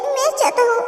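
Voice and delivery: quiet, tender and grieving; soft sorrowful wish. Acted. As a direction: say it gently, like a last wish. Recalled dying wish to husband.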